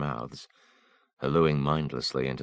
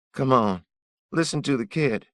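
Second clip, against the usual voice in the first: high, loud desperate begging; a ragged thief pleading at gunpoint; 12 semitones higher, 8 dB louder than usual. Acted. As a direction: beg for your life in a strained high voice. Thief pleading for his life.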